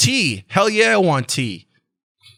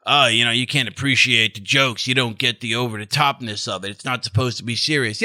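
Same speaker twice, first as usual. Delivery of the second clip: mock critic voice; 5 semitones lower than usual. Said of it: "I don't wanna be taken the wrong way".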